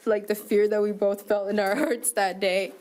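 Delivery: fighting back tears while recalling the fear; getting emotional. Real, not acted. Woman recounting her arrest, breaking down in tears. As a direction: voice breaking into a tearful laugh-cry. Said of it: "I'm getting a little emotional".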